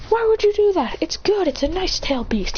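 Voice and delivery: high-pitched indignant defense; upset protest. Acted. Protests attack on creature.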